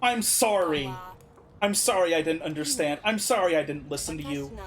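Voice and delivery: low, contrite apology; understated acted remorse, sinking at the end; remorseful plea. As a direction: apologise earnestly, begging them to stay.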